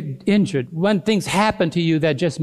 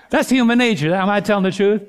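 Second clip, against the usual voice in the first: said through a laugh, higher; 3 semitones higher, faster than usual. Real, not acted. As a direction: chuckle the line out. Laughing at own story.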